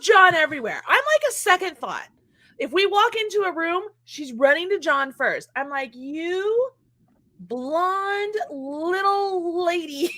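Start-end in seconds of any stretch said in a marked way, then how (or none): 6.0-10.1 slow, drawn-out mock scold at the dog. Teasing the dog who prefers John, slow mock scold. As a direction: pretend to scold the dog, very slowly.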